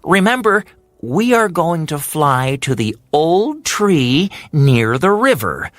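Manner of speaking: high, bright little bird voice; cheeky Hummingbird. Acted. Hummingbird setting the race rules for Heron, high and cocky.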